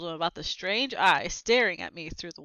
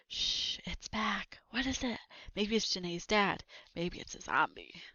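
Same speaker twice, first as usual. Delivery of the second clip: hushed, mostly whispered, softer; scared whisper; 8 dB quieter than usual. Acted. Boy warning his friend about the noise, frightened whisper. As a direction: whisper so the thing behind the wall can't hear.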